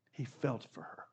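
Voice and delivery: almost under the breath; hushed repeat. Acted. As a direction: let it sink in quietly. Preacher repeats softly.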